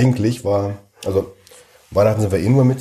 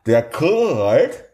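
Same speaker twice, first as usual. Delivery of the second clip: mouthpiece talk; 6 semitones higher, much slower than usual. Acted. Repeating through mouthpiece.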